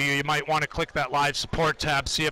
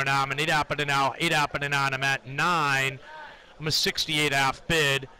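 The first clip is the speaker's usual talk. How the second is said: trading floor price calls. Acted. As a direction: call the bids in a monotone chant. Live price ladder callouts.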